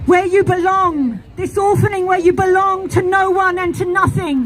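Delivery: commanding goddess proclamation. Acted. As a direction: call out as the great mother.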